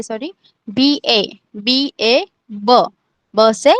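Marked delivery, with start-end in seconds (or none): 0.7-2.9 बी ए ब in separate, drawn-out beats; spelled-out pronunciation. Shown as a demonstration. Teacher showing pupils how to pronounce the letter, ब sounded out slowly. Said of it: "कैसे pronounce करना है".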